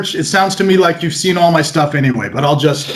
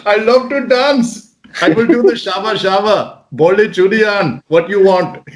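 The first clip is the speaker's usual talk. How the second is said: put-on playful Indian accent, pitched up; 4 semitones higher than usual. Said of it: "talking like this".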